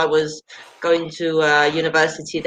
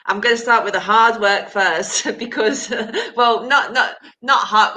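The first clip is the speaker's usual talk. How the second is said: laughing while talking; 3 semitones higher than usual. Real, not acted. Laughing at her own plan.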